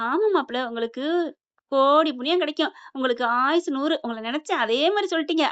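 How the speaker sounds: lightly hammed-up gushing praise; gushing flattery. Mother-in-law flattering her son-in-law, gushing flattery. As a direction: lay the blessings on thick. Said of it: "பொழு அப்படியே அள்ளி தள்ளுதுங்க".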